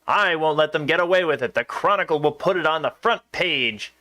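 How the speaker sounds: lightly voiced southern newspaper editor; a hint of a southern newsy accent. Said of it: "The southern accent just kinda took over".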